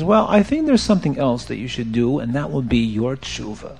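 low, soft, tactful reassurance; gentle counsel. Acted. Baal Shem Tov consoles the penitent, gentle counsel. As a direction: ease him toward another way.

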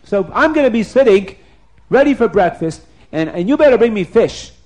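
a hint of royal bossiness; demanding king. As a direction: insist on it like a hungry ruler. King demanding fish from cook.

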